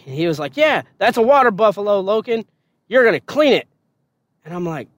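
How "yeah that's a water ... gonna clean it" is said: drill sergeant voice. Retold or imitated.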